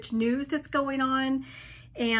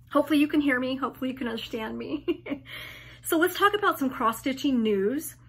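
hoarse, fading voice; straining a lost voice; laryngitis; faster than usual. Real, not acted.

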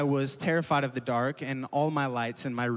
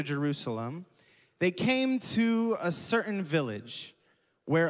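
slow, measured Bible reading; scripture reading. Acted. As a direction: read the passage to the church deliberately. Reads scripture aloud to congregation.

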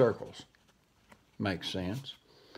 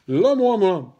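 loud garbled yelp with tongue held; 6 semitones higher, 8 dB louder than usual. Acted. Dog yelping while his tongue is yanked, loud and garbled. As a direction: cry out through a yanked tongue.

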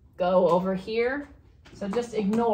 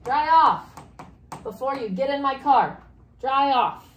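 mildly bossy order, raised voice; firm pretend order, a touch louder; acted command; 3 semitones higher, 3 dB louder than usual. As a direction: tell somebody to dry off. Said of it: "and tell somebody".

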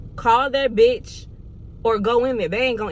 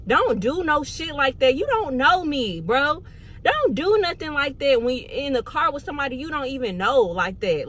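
retold spazzing out; 4 semitones higher than usual. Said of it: "I'm spazzing".

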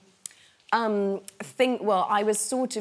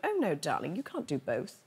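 calm reply; 3 semitones lower, 5 dB quieter than usual. Retold or imitated. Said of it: "she just very calmly".

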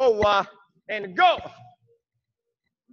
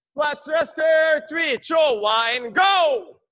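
drawn-out coach shout; 3 semitones higher, slower than usual. Real, not acted. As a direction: bellow each word to the class. Coach calling out exercise.

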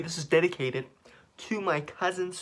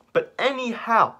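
excited; 7 semitones higher, 5 dB louder, slower than usual. Real, not acted. Loud hype before playing.

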